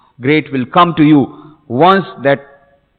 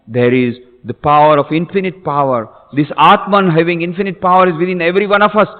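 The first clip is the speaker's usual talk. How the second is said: ordinary delivery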